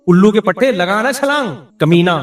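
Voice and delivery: hammed-up furious mother cursing her son; angry scolding. Mother at the pool yelling at her scared son, hammed-up angry. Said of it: "زبان سے جتنے تانے دے سکتی تھی".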